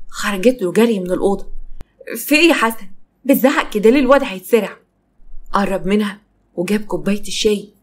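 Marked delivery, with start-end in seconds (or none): 2.2-4.8 higher, urgent pushback; alarmed protest. Acted. Wife protesting husband's yelling near the child, alarmed. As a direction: scold him with a touch of alarm.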